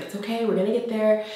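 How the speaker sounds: soft, reassuring imitation of husband; calming. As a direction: retell it gently, as if soothing someone. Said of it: "he calmed me down".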